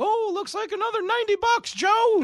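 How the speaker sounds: goes way up high and loud. Retelling asking dad for something else at Disney: Mickey Mouse voice. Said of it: "my brother Mike does a great Mickey voice".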